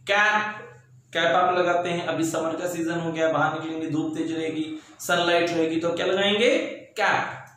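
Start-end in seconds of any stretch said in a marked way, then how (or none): 0.1-0.6 clear, drawn-out single word; spelling-test delivery; slow dictation. Shown as a demonstration. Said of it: "मैं धीरे धीरे बोल रहा हूँ". 7.0-7.4 teacher calling out a word list; slow dictation. Shown as a demonstration. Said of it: "मैं धीरे धीरे बोल रहा हूँ".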